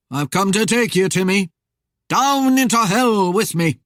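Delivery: loud, projected ghostly doom; menacing spectre. A narrator's reading. Rider claims Timmy for hell, menacing. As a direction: intone it as Death claiming a soul, voice rising. Death's voice in narrated story.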